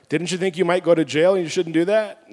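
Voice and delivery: loud retold rebuke; insistent mock questioning; scolding wife. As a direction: lightly imitate a wife pressing her point. Third round of wife's scolding question.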